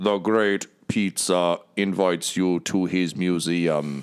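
mechanical, robotic droid voice-coder speech. Describing a stout walking-couch droid that speaks through its voice coder: robotic vocoder voice. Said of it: "Its sort of voice coder says".

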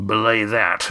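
low, rumbling. Narrator reads Roaring Jack's retort to Yan, rumbling. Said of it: "Roaring Jack rumbled".

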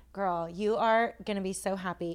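usual speaking voice

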